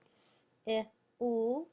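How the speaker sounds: S-I-L as separate sounds, sss, ih, ull; S-I-L said by sound, not by letter name. Shown as a demonstration. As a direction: sound out S-I-L phonetically with gaps. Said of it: "first syllable".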